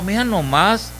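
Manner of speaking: eager "vamos o no, compa"; party-going buddy. Acted. Worldly man invites his pal to the band, excited and high.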